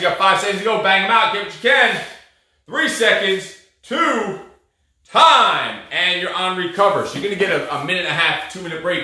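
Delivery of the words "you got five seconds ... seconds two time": loud countdown cheer; coach counting down. Real, not acted. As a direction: push them through the final seconds. Coach calls final seconds.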